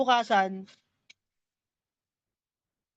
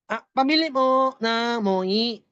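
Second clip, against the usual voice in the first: slower ngongo repeat; slower than usual. Acted. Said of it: "dahan-dahan".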